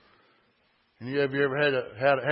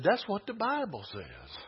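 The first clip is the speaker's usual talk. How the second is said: "That's what the Bible says" raised in pitch; insistent repeat; 5 semitones higher, 5 dB quieter than usual. Real, not acted. Preacher insists to congregation on the Bible, pitch raised. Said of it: "I said".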